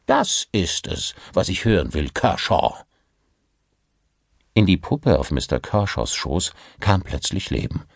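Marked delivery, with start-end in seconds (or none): 0.1-2.7 pressing for the truth; insistent boss voice; demanding director. Acted. (fordernder Theaterdirektor)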